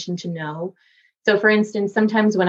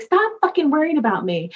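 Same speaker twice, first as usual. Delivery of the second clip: dad's gruff voice; 9 semitones higher than usual. Retold or imitated. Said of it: "he was like".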